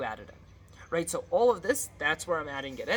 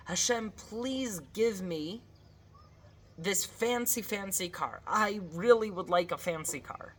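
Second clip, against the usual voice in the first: wishful pleading; 3 semitones higher than usual. Acted. Worshipper prays for a car, mock pleading. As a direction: linger on the request, mildly hammed-up begging.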